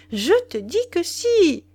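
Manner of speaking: high and loud, hitting "si" with a falling end; impatient insistence. Acted. Wife repeating her point to Duroy, impatient and loud. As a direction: slam the final "si" down. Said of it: "haussait les épaules avec impatience".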